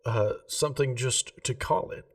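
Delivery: a hint of a prim gem-shop lady, keen on geometry; Remy the jeweller. Remy offers to name stone.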